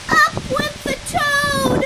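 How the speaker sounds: high, loud burst on up; excited leap. A narrator's reading. Reading to kids as the toad flies up, excited. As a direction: launch the word up skyward.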